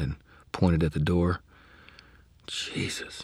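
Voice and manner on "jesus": whispered in shock; soft. Acted. Murphy whispering in shock over the wizard. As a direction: breathe it out, barely voiced. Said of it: "she said softly".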